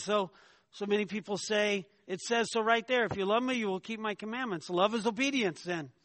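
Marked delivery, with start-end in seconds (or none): 2.1-5.9 lightly mimicked insistence, raised in pitch; insistent objection. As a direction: argue it like a literalist, higher and louder. Acts out people insisting on scripture.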